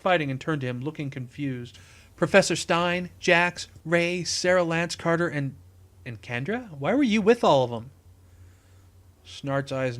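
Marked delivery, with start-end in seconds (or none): 2.1-7.9 urgent demand. Acted. Cisco demands an explanation.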